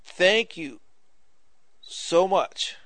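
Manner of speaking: slow, drawn-out heartfelt gratitude; sincere thanks. Retold or imitated. Healed coworker thanking the preacher, sincere. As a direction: let each thank-you land slowly, sincerely. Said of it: "And he was sincere".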